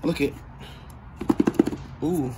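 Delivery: ordinary delivery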